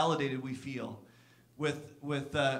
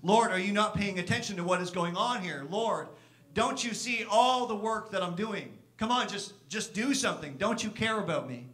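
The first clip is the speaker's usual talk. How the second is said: a mild hint of accusation, slightly raised; accusing Martha; 3 semitones higher than usual. Pastor voices Martha complaining to Jesus, mildly accusing. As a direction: press the Lord as if he isn't paying attention. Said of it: "There seems to be an accusation in her voice".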